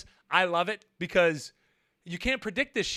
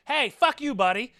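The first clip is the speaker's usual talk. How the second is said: mock driver insult; 3 semitones higher, 4 dB louder than usual. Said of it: "I'm imagining it was".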